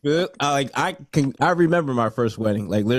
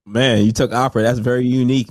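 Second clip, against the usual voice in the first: ordinary talk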